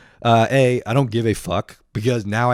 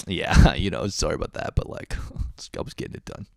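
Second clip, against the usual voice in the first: fake sheepish; 3 semitones lower than usual. Caught dude apologizes to his friend, fake sheepish. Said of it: "they're gonna be like".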